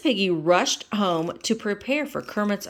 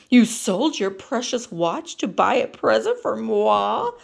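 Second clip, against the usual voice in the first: mild scream; 5 semitones higher, 5 dB louder than usual. Acted. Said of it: "screamed Miss Piggy".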